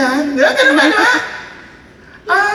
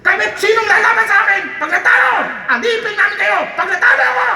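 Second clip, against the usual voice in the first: Goliath's challenge; 3 semitones higher than usual. Acted. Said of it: "Sabi niya".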